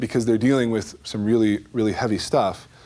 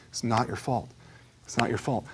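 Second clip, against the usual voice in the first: softer, gently pressing each word; soft repetition; 7 dB quieter than usual. Retold or imitated. Counselor gently repeating it to the young man, softly. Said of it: "keeps saying it".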